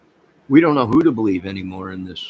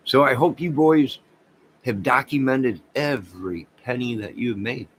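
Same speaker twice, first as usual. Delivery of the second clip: taunting; 4 semitones higher, 4 dB louder than usual. Real, not acted. Taunting YouTubers about owing taxes.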